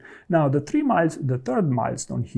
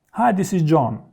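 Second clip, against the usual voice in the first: professional greeting; 3 semitones higher, 3 dB louder than usual. Shown as a demonstration. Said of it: "instead of saying hello, you could say".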